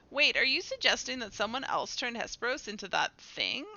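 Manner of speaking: formal game-character exchange; dramatic dialogue reading. Acted. Characters discuss a hidden mastermind, formal dramatic reading. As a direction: read it as a mystery being reasoned out.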